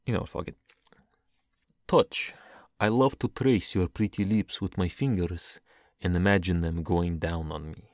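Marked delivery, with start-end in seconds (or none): 1.9-7.9 deliberate, sensual verse delivery; performed love-poem reading; poetry reading. Acted. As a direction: read the lines slowly and pointedly. Resumes accent to read poem.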